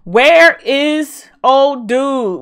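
very high, loud theatrical wailing; high-pitched, hammed-up anguish; overwhelmed wail. Real, not acted. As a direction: wail in dismay at the screen. Overwhelmed by crying characters on screen.

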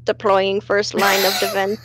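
flat monotone robot. Pretend. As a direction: read it like a deadpan machine. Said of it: "That actually sound like a robot".

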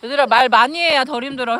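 loud coaching call; shouting to the court. Real, not acted. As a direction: call it out to the team.

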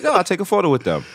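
quick, offhand agreement, imitated; laid-back retold consent; chill star. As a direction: toss it off like it's no trouble. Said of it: "who's mad chill".

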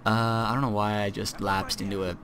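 normal talking voice

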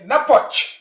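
"napoch" ending in a ch sound; Uyu dialect pronunciation. Shown as a demonstration. Teacher showing the Uyu word for child, Uyu dialect pronunciation. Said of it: "like in Uyu dialect".

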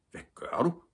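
high-pitched alarmed question; taken aback; startled. A narrator's reading. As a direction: ask in sudden alarm. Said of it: "spurgte Viggo forskrækket".

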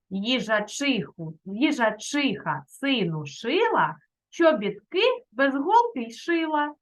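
повільно, ритмічно, як віршик для дітей; прочитати віршик дітям неквапливо; читання віршика. Shown as a demonstration. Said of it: "У нас є два віршики". (виразне читання вірша)

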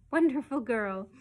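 loud, doting praise; proud. A narrator's reading. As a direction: gush over your baby daughter. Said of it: "said Missus Banks proudly".

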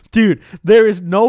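retelling his shocked denial; disbelieving outburst. Retold or imitated. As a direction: blurt it out in disbelief.

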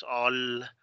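"all" with Spanish vowel, like ol; read as in Spanish. Shown as a demonstration. Teacher showing learners' reading, Spanish-style pronunciation. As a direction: say "all" as a Spanish reader would. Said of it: "como se lee en español".

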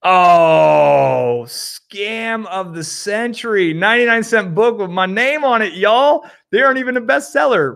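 high, loud cry of real outrage; outraged disbelief. Real, not acted. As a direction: react to finding a scam under your own name. Finds fake book with his name.

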